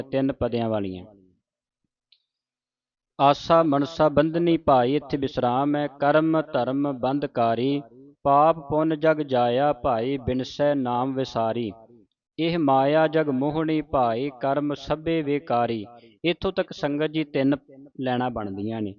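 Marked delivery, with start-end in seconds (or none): 3.2-4.9 slow, measured recitation with drawn-out vowels; scripture recitation. Shown as a demonstration. Teacher reciting a shabad for the congregation, slow measured recitation. 6.0-15.8 slow, measured recitation with drawn-out vowels; scripture recitation. Shown as a demonstration. Teacher reciting a shabad for the congregation, slow measured recitation.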